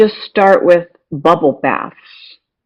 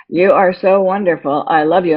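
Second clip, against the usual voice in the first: robot voice. Retold or imitated. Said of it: "And I sounded like a robot".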